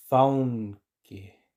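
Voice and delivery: faunque said slowly with au; teacher says it slowly for learners. Shown as a demonstration. Slow au take. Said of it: "Y ahora lentamente".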